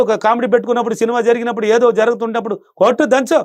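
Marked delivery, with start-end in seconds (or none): 2.8-3.4 cheering everyone on. Pretend. Urging family to laugh.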